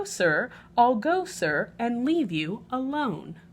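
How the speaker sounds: a polite but firm refusal, lightly voiced; lightly voiced lady guest. Peggotty politely refuses Oliver.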